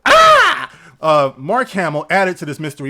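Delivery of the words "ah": high yelp. Real, not acted. Sudden outburst after laugh.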